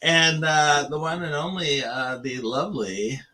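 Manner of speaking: host introduction. Shown as a demonstration. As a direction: announce her like a game-show host. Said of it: "Hey, see how I did that?".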